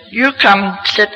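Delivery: retold mother insisting he stay; insistent command. Mother orders him to sit.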